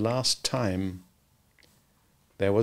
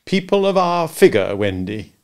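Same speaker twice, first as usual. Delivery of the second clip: pompous father, lightly voiced. Peter as grand father.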